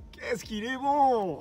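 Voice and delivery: slow, smug self-praise. Pretend. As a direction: savour each word, pleased with yourself. Bragging about his own work.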